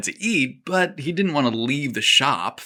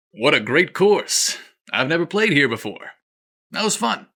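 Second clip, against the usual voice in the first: exuberant joy; 4 semitones higher than usual. Acted. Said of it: "He beamed with exuberant joy".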